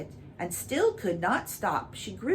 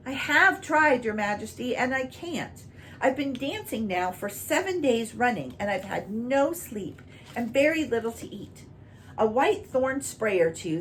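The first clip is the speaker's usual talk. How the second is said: higher, earnest plea; pleading cow; 6 semitones higher than usual. Acted. Red cow explaining to the king, higher and pleading. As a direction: beg for help, higher and earnest.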